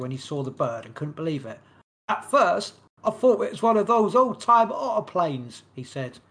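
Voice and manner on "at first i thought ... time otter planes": a hint of an American accent, a bit higher and louder. Podcaster reads the witness quote in a light American accent. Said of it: "Notice my great American accent".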